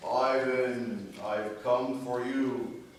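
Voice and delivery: slow, looming Death voice; grim reaper voice. Acted. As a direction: drag it out like Death calling. Death visits Ivan in joke.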